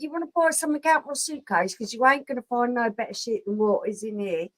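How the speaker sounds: Cockney street-seller patter; London market-trader Cockney; Cockney accent. Shown as a demonstration. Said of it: "demonstrate a Cockney accent".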